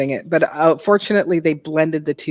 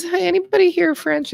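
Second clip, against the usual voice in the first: calling to audience; 13 semitones higher than usual. Retold or imitated. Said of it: "I always just go".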